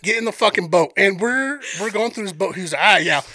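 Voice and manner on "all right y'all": lightly voiced Cajun guide; Sambo's Cajun accent. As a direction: call to passengers with a Cajun accent. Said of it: "I'm gonna play this dude's accent".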